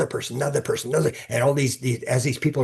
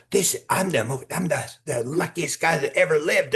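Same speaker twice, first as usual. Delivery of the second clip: excited; 5 semitones higher than usual. Retold or imitated. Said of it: "I'd be sort of yelling and all excited".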